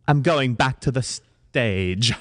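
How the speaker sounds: slow, deliberate British announcement; stagey British accent, drawn out. Acted. Mother announcing her return to her children, slow British accent. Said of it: "we can do British".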